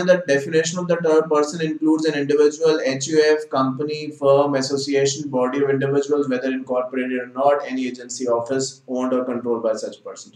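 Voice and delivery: slow, deliberate reading of a statute; measured textbook recitation; reading legal text. Acted. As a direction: read the definition out word by word. Reads statute definition aloud.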